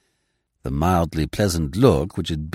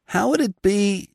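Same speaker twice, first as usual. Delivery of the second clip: tentative; 14 semitones higher than usual. Acted. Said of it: "ventured Mister Coots".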